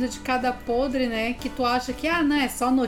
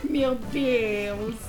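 laughing hard; 10 semitones higher than usual. Real, not acted. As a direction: burst out laughing, shrieking. Listener cracks up at joke. (gargalhada alta e aguda)

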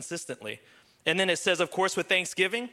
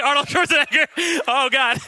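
put-on loud, high Schwarzenegger-style accent; badly faked European accent, played for laughs; booming mock European accent; hammed-up European accent; 7 semitones higher, 8 dB louder than usual. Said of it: "that's not Ukrainian".

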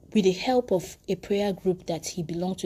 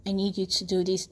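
genteel, shy prayer; 2 semitones lower, 5 dB quieter than usual. Shown as a demonstration. Preacher mimicking overly polite prayer to God, shy and restrained. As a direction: pray too politely, soft and hesitant. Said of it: "be a gentleman or a lady".

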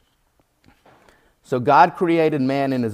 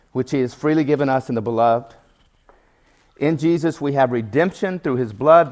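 scripture reading. Acted. Preacher reading Paul's letter to the congregation, solemn. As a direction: read the verses with weight.

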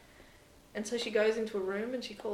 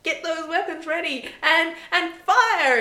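higher, louder barked order; commanding order; 10 semitones higher, 9 dB louder than usual. Retold or imitated. Michael ordering the crew to fire, high loud command.

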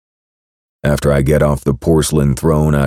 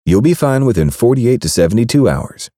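higher, smug and pleased; gloating over the prank; smug woman's voice; 9 semitones higher than usual. Acted. Baker admitting the laxatives, smug voice. Kat dismissive.

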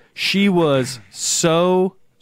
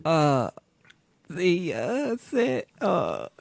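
flustered translator; 5 semitones higher, 5 dB quieter, much slower than usual. Retold or imitated. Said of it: "And she was like".

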